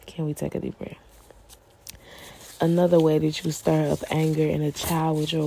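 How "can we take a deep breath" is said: softer, settling repeat; soothing softer ask; calm and soft. Shown as a demonstration. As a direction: ease them down gently.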